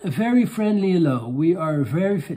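hammed-up Dutchman greeting in English; Dutch accent English. Streamer starting a mock English reply, then dropping it. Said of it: "dat ga ik niet doen".

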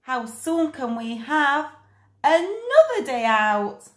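bear's eager shout. Acted. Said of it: "the bear shouted out".

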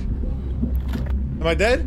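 very slow whisper; slow stunned whisper. Real, not acted. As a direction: breathe the question out. Whispered after dying.

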